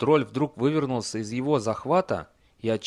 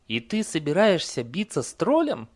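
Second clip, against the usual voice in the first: mildly sceptical horse, pitched higher; sceptical snort; 6 semitones higher than usual. A narrator's reading. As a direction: question the rider's plan as the horse. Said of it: "хмыкнула лошадь". (скептический голос лошади)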